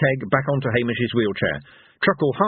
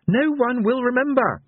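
rising lament. A narrator's reading. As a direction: let the line soar into a lament. Minstrel repeats the line twice.

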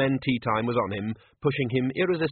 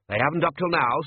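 darkly; 6 semitones higher, 5 dB louder than usual. Acted. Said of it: "said the manager darkly".

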